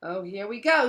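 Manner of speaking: sour, resigned complaint; bitter. A narrator's reading. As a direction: grumble at what's coming. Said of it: "said Nearly Headless Nick bitterly".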